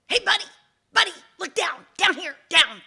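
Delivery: high, loud urgent hail; calling out. Acted. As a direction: shout up to a passer-by. Hidden snake calls to passer-by.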